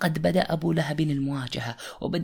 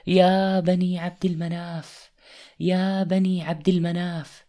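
calling out; 4 semitones higher, 3 dB louder than usual. Acted. Prophet calling clans from mountain.

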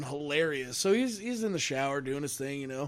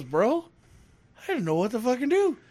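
coworker freaked out; 8 semitones higher, 5 dB louder than usual. Retold or imitated. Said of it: "he goes".

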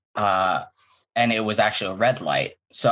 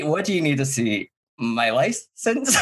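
acting weird; 5 semitones higher than usual. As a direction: stretch the last word out in an odd high voice. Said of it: "laughing at how weird I was".

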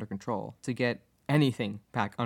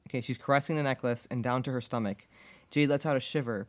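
ordinary delivery

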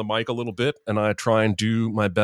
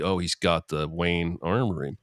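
normal talking voice

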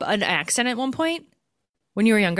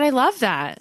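"I love that" repeated louder and clearer, higher pitch; said again louder; 5 semitones higher, 4 dB louder than usual. Real, not acted. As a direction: say it again so she can hear you. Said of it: "What did you say?".

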